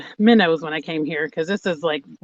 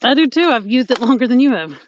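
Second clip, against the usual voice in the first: defensive; 5 semitones higher, 5 dB louder than usual. Real, not acted. Defends herself in tripod squabble.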